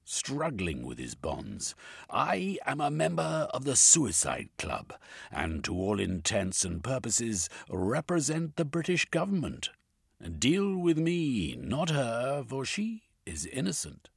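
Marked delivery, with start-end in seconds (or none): 2.1-14.1 defiant Cornucope. A narrator's reading.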